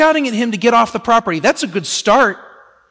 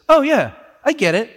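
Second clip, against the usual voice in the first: breezy knowing woman. Retold or imitated. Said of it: "she says".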